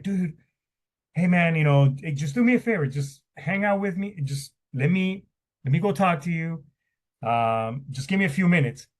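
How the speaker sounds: reassuring friend. Retold or imitated. Friend calming him on phone.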